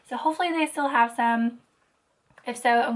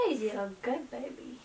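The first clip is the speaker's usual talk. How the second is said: dog mom voice; 11 dB quieter than usual. Acted. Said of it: "my dog mom voice".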